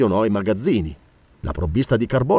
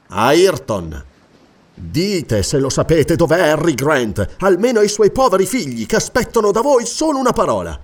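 pleading interrogator; 3 semitones higher, 3 dB louder than usual. Acted. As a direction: implore him for just one word. (supplica accorata e insistente)

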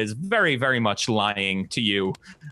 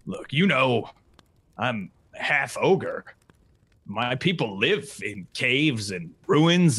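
a little uncomfortable. Acted. Half ogre explaining his people, a little uncomfortable. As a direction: explain it awkwardly, with pauses. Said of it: "seen him a little uncomfortable".

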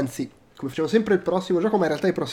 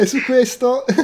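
breaking character giggling; 8 semitones higher, 8 dB louder than usual. Real, not acted. First closing attempt breaks down.

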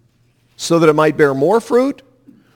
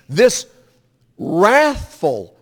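ordinary talk

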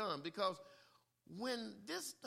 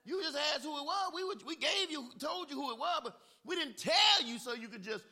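scolding hush; 9 semitones higher, 11 dB louder than usual. Acted. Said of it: "They tried to tell him".

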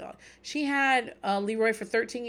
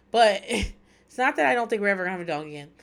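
louder, laughing take-back with a push on "that"; laughing correction; 6 dB louder than usual. Real, not acted. Telling listeners about getting a dog, a louder laughing take-back. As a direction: cover the aside with a laugh and lean on "that".

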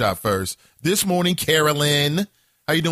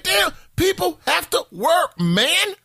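exasperated shout; 14 semitones higher, slower than usual. Retold or imitated. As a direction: shout it out, fed up with the racket late at night. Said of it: "I'm like".

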